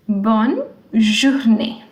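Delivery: bonne journée said slowly, bonne then zhoor-NAY; slow model of bonne journée; French bonne journée. Shown as a demonstration. Teacher slowly models bonne journée for students. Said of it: "accent aigu, you will give a sound".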